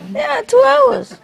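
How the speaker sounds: high, slow, showy brag; smug boast. Real, not acted. Comic bragging to the traveller about a two-hour flight. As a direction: savour it like a brag.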